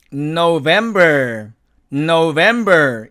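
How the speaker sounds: "November" slow, the held N releasing gently; soft-burst initial N. Shown as a demonstration. Teacher shows sound trapped then released, soft hummed N. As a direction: keep the N in the mouth, then open "November". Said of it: "부드럽게 터져 나오면서".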